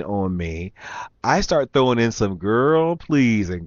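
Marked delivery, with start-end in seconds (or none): 2.4-3.5 hammed-up "girl, please" brush-off; exaggerated sass. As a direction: lay on the sassy dismissal thick. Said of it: "and really exaggerate it".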